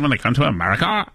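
mocking the kid's lilting inflection; mimicked voice inflection. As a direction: exaggerate the pitch swings on the last words. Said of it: "talks with a voice inflection".

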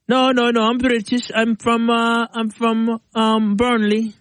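a hint of a British accent that drifts Jamaican; light attempt at British, sliding into Jamaican; British accent gone Jamaican. Podcast cohost tries British for friends, a faint drifting accent. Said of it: "That sounded Jamaican".

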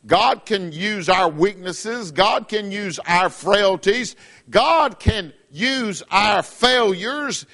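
slow, drawn-out sermon cadence; preacher building a point; slow preaching. Acted. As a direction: lay each line down slowly from the pulpit.

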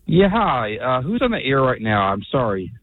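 odd Southern-tinged accent; muddled Southern accent; Southern-sounding accent. Real, not acted. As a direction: speak with an unconvincing Southern accent. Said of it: "in a very bad Southern accent".

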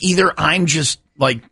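slow, half-laughing aside; laughing through it. Retold or imitated. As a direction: let the laugh creep in as you reason it out. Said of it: "so I'm like".

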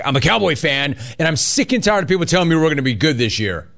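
lightly mimicking a rambling caller; quick, mildly mocking recap. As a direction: rattle off the caller's complaint mockingly. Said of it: "you're like".

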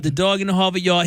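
put-on echoing a Boston accent. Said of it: "typed out in Boston accent".

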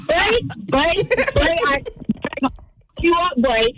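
light Bahamian accent, playful; a quick hint of her ex's Bahamian accent. Shown as a demonstration. Caller showing the hosts her Bahamian accent, playful. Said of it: "that's my Bahamian".

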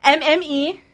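spelled out slowly. Shown as a demonstration. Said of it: "spelling it out slowly".

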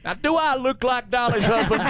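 high-pitched mock-incredulous comeback, laughter creeping in; Carl Dean's retort. Farmer answering fans who hollered at him, high mock retort. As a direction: play the husband's reply way up high. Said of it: "And he would say".

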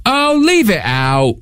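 exaggerated British slang delivery, slow British accent. Shown as a demonstration. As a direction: draw it out in a put-on British accent. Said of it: "Your British accent".

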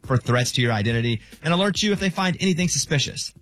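scripted radio sponsor read. Acted. Host pitching identity protection to radio listeners, ad read. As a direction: read it as a polished promo.

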